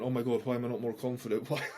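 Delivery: laughing through the question, fast; laughing self-mockery. Man laughing at his own lack of confidence, fast and laughing. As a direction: laugh at your own worry.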